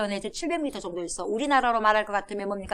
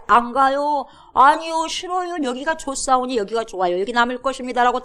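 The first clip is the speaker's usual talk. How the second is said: stubborn refusal; 3 semitones higher than usual. Retold or imitated. Tribes refuse God's order.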